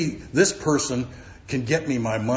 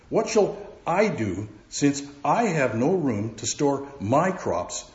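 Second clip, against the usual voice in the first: rich man pondering; 4 semitones higher, slower than usual. Acted. Preacher voices rich man.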